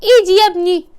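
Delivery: exaggerated, loud plaintive aches; mock aching complaints. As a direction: groan each body part like a creaky granny. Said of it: "انت بتتوجعي".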